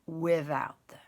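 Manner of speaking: whispered aside; stage whisper. Acted. Aunt whispering to the boys, sharing a secret. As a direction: breathe it like a secret. Mock-sad aside to kids.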